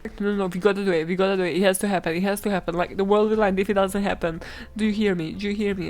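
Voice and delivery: insistent, hurried repetition in mock panic; acted frantic insistence, lightly done; mock panic attack. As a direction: plead as if badly running out of time. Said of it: "This is me mid panic attack".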